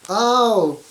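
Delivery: high, loud burst of realisation; sudden oh. Real, not acted. Reader suddenly realising about the Tooth Fairy, surprised. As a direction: yelp as it suddenly clicks.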